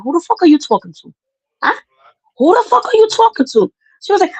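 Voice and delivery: put-on high, furious yell at a mouthy kid. Aunt yelling at her disrespectful niece, furious high yell. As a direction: scream it at her, towering over her.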